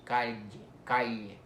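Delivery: calle with an L-Y glide for the double L; palatal L. Shown as a demonstration. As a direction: model word calle, said like "cal-ye". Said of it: "es el sonido de el".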